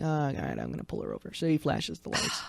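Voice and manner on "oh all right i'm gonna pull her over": very low, soft imitated mumble; trooper's quiet, reluctant thinking aloud; resigned mutter. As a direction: mutter it to yourself, sinking away. Voices a reluctant trooper's thought.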